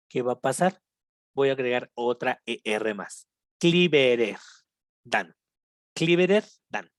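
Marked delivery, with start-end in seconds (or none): 3.6-5.4 slow split model. Shown as a demonstration. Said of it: "Hasta se ve como raro".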